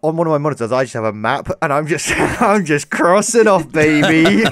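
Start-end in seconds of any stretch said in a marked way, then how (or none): 2.2-4.4 mock gloating. Jokingly gloating over crossed-off countries.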